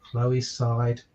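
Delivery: put-on bright, lilting picture-book narration for children; story reading. A narrator's reading. Father reading a giraffe story to listeners, lilting storybook narration. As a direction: read it like bedtime story time for little ones.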